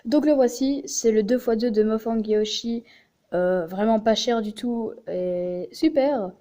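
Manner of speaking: talking through a runny nose; sniffling. Real, not acted. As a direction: sniffle between words. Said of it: "pardon si je renifle".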